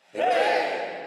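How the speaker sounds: very high, loud cry of hey; a very high, loud call; yell. Shown as a demonstration. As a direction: yell it out with hands down. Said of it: "do that again".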